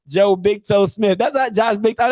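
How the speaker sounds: lightly hammed-up old sports fan; old-head impression. Old heads and their weird nicknames, mocking impression. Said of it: "That's how they be sounding".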